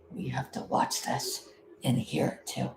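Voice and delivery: soft whisper. Real, not acted. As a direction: hush while watching. Whispers while watching live.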